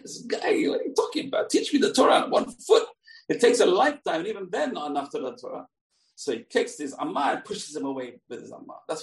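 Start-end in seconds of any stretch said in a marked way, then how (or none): 0.0-5.7 acted indignant outburst, jumping higher; mad Shammai. Rabbi outraged at the one-foot request, acted anger. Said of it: "Shammai is mad".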